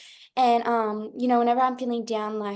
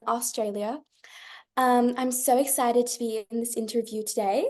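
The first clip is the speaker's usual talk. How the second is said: put-on Australian girl putting on a clear General American accent. Shown as a demonstration. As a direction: intro line in a neat American accent, r sounds fully pronounced. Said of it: "do you wanna, wanna say something, uh, uh, to American accent".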